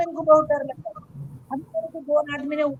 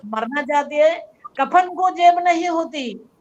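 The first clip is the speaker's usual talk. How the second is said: inner voice scolding; 5 dB louder than usual. Retold or imitated. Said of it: "अंदर से आवाज आई".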